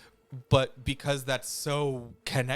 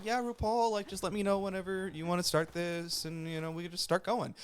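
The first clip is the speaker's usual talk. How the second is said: imitating Paris Hilton; 5 semitones higher than usual. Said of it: "Gottmik ... did Paris Hilton".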